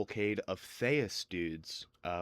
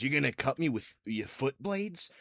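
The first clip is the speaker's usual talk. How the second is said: gate guard; 5 semitones higher than usual. Acted. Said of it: "And the guy says".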